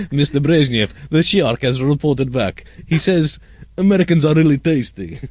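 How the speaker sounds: lightly acted Russian accent; comic Soviet aide with Russian accent. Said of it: "quite a wide range of accents".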